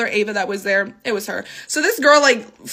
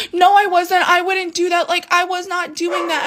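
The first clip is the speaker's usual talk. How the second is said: higher-pitched, insistent mock denial; swearing up and down; 6 semitones higher than usual. Caught friend denying it to the storyteller, imitated as high, insistent protest. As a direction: imitate someone protesting her innocence. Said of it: "she's swearing up and down".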